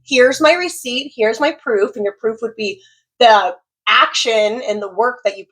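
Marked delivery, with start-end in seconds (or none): 0.0-2.0 speaking up. Retold or imitated. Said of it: "open up your mouth and be like".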